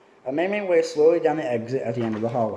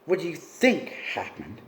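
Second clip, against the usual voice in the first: snapped; 2 semitones higher, slower than usual. A narrator's reading. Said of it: "he snapped".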